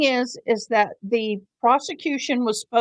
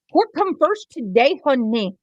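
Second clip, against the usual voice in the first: teasing sass; 3 semitones higher than usual. Pretend. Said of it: "I'm play-, I'm teasing".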